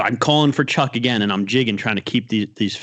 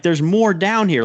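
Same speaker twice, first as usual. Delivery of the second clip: retold call; 8 semitones higher than usual. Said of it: "I'm like".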